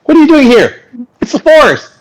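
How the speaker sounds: loud, high, challenging the strangers; shouting guard. Acted. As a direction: bark at the intruders. Guard yells at intruders.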